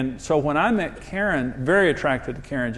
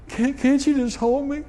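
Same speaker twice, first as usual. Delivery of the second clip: slow, much higher plea of a crying wife; pleading wife; 10 semitones higher than usual. Retold or imitated. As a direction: voice his crying wife begging to be held, slowly. Crying wife asks to be held.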